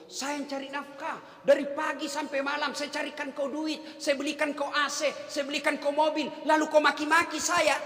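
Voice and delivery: a hint of a boastful husband; mock proud husband. Preacher voicing an egotistic husband, mild mock boast. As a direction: lightly play the smug breadwinner. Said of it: "Setan yang ngomong begitu".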